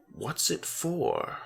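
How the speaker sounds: high, slow, puzzled question; light boyish curiosity, drawn out; Alex questioning. A narrator's reading. Alex asks Stitches about the plushie, slowly puzzled. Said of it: "Alex questioned".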